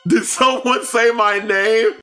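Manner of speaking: high, slow dramatic cry; character voice. Acted. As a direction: call out as the startled character. Voicing a character called.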